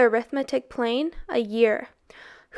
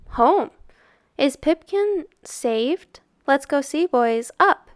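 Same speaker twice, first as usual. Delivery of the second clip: rallying cry; 3 semitones higher, 4 dB louder, slower than usual. Acted. Montrud rallying the boys to fly.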